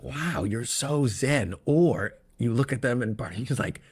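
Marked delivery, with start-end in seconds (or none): 0.0-1.5 slow mock awe. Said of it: "you're like".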